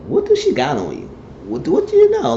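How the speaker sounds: rising to a squeak; high urgent pleading; pressing demand. Retold or imitated. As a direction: push him hard to tell. Catherine pressing him for answers.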